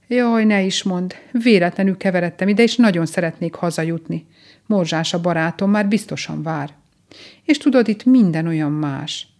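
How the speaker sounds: a touch plaintive, projected; mildly worried little rabbit; lightly voiced lost rabbit. Lost rabbit explaining himself to the mole, mildly plaintive.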